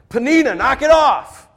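husband sharply scolding the taunting wife; firm rebuke. Retold or imitated. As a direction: put your foot down and stop her. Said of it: "That's what he should do".

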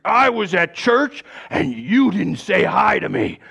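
a touch of a hurt complaint; mild mock grievance. Man at church complaining the pastor didn't greet him, mildly aggrieved. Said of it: "furious with me".

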